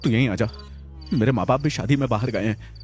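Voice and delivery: trembling with fear, begging his friend to come. A narrator's reading. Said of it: "Vicky कंपकपाती आवाज में".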